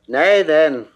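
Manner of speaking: a sudden loud, indignant outburst; Adonis protesting. Acted. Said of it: "quoth Adon".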